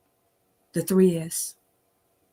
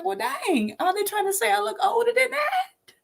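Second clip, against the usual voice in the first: high, laughing mock indignation; offended inner reaction; 14 semitones higher than usual. She takes offence at the stranger, high and laughing. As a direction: play it as a comic affront. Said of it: "And I was like".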